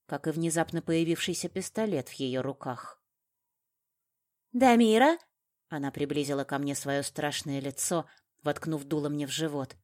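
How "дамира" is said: high, loud rising call; raised, threatening shout; menacing cry. A narrator's reading. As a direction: fling the name out as a challenge. Armed villainess lunges at heroine.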